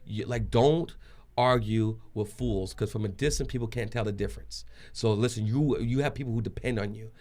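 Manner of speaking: measured, sincere reasoning; calm persuasion. Retold or imitated. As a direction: talk a friend down from a fight. Retold talking pastor down from fight.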